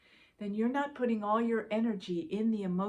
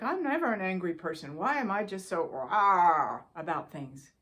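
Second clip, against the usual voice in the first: mock anger; 5 dB louder than usual. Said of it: "If we get angry and it's like".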